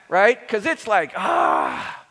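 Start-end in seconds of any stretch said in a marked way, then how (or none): 1.2-2.1 long, low "ah" of overwhelm; exasperated sigh. Acted. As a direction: let out a big weary "ah". Exclaims at it all being much.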